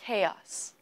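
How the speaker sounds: "Chaos" as "KAY-os", hard k, stress first; model pronunciation. Shown as a demonstration. Teacher asks viewers to listen and repeat, model pronunciation. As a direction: clear falling "Chaos" for repeating. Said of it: "I'd like you to listen carefully and say it with us".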